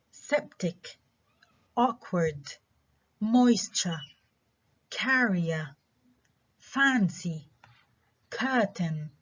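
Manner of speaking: "septic, awkward, moisture, carrier, fancy, curtain" as spaced model words, each stressed on its first syllable. Shown as a demonstration. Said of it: "examples of stress on the first syllable".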